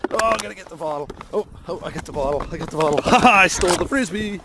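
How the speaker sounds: high, loud singsong teasing; playful teasing dog voice. Real, not acted. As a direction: tease the dog over the bottle.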